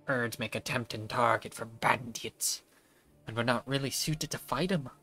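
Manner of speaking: put-on Scottish accent. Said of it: "why did this man's accent just disappear".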